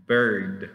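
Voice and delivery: "bird" with a D at the end; final D. Shown as a demonstration. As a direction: finish "bird" on the D. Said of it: "con una D al final". ("bird" con la D final)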